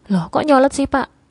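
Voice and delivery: annoyed. Acted. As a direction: snap back at him, irritated. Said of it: "ucapku dengan kesal".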